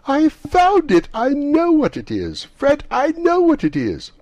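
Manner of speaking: high, loud gleeful party cry; excited shout. Acted. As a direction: shout the answer with delight. Excited party guests shouting guesses.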